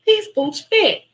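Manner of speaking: high, loud squeal of joy; thrilled. Retold or imitated. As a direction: burst out delighted the boots fit. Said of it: "I'm like".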